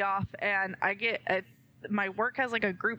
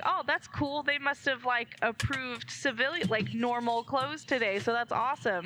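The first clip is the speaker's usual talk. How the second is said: bright, naive delight, pitched up; sing-song happy self-quote; mock chipper; 4 semitones higher than usual. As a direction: play it clueless and cheerful. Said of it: "I'm like".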